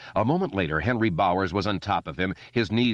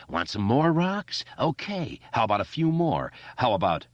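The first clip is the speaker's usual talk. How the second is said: manic bully; 5 semitones higher than usual. Acted. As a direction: savor the cruelty. Henry raving.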